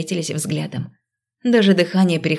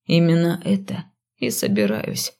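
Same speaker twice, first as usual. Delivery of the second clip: smug. A narrator's reading. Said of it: "довольно подтвердил он".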